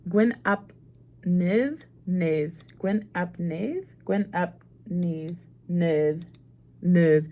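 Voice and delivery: "Gwyn ap Nith" with "Nith" rhyming with with; practising the name. Shown as a demonstration. Copying the clip to learn a Welsh name. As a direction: repeat "Gwyn ap Nith" to get it right. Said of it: "Gwyn ap Nuth pronunciation".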